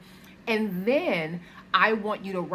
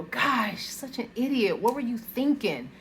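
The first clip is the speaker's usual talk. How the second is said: harsh self-talk; 5 semitones higher than usual. Retold or imitated. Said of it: "if you messed up and you normally go".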